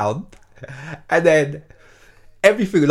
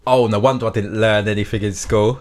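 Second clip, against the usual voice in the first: mock sneering girl; 2 semitones lower than usual. Teacher retelling a girl's rude text, mildly sneering voice. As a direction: sneer the insult. Girl's insulting reply quoted.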